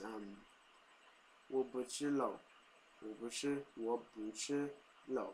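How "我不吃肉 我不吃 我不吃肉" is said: Taiwanese way. Shown as a demonstration. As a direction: read "我不吃肉" as learned in Taiwan. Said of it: "what I'm used to saying is".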